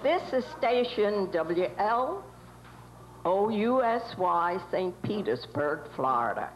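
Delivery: am radio. Acted. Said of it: "nineteen twenties radio station studio".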